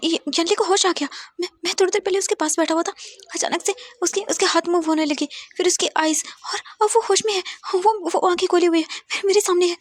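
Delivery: breathless, high and fast excited news; stammering with excitement on the phone; excited son. A narrator's reading. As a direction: blurt out the good news in a rush. Son calls father, patient awoke.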